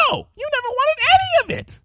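high, loud spat words; spitting fury. Acted. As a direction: spit it out in anger. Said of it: "Rarity spat".

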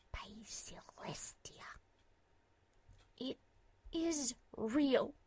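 breathless, whispered disbelief; awed whisper. A narrator's reading. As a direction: whisper it in awe. Awestruck whisper at the ghost.

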